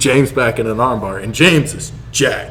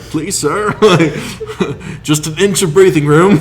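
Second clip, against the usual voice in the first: mock pleading; 6 semitones higher, 4 dB louder, slower than usual. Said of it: "you're like".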